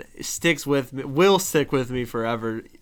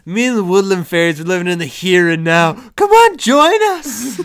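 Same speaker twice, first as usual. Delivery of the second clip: coaxing Will Ferrell quote; 6 semitones higher, 9 dB louder than usual. Retold or imitated.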